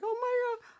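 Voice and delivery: high hammed-up remorse; mocking Sharon. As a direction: wail the guilt in a high mock voice. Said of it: "Sharon's like".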